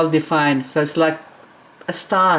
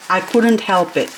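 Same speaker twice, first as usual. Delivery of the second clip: normal talking voice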